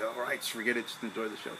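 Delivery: low, soft muttering to himself; retold resigned self-talk. Concertgoer telling himself to enjoy the show, quietly resigned. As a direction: drop the voice and let it go. Talking himself down after anger.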